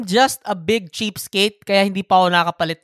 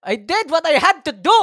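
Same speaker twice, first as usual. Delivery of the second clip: stifled giggles; 9 semitones higher, 4 dB louder than usual. Real, not acted. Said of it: "You're trying not to laugh".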